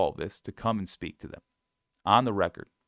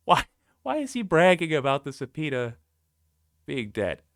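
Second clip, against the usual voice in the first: laughing disbelief; 5 semitones higher, 4 dB louder than usual. Real, not acted. Laughing at Trump bragging.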